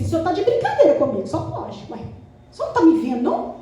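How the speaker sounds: indignant complaint to God, a touch of laughter; playful exasperated whine; mock tearful protest. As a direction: protest as if put upon, pitch rising. Acting her tearful protest to God.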